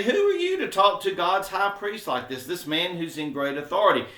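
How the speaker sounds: mock a touch of outrage; indignant rebuke. Council rebuking Paul over the high priest, mild indignant rebuke. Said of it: "they rebuke Paul".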